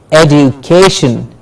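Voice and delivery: "Education" as ed-yoo-KAY-shun; stress before -tion. Shown as a demonstration. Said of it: "we stress the syllable before shin".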